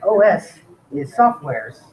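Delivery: slow, lightly put-on Russian accent; a mild imitation of a Russian lecturer, slowly. Quoting a Russian course instructor in a light, slow Russian accent. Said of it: "it was this really heavy accent, like, Russian guy".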